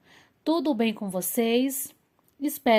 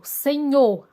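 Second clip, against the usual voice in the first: example read aloud; 4 semitones higher, 7 dB louder than usual. Shown as a demonstration. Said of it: "temos o exemplo".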